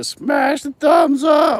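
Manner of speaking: very high, slow voice breaking. Talking to viewers while hunting for the remote, the speaker's voice cracks. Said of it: "My voice just cracked a little bit".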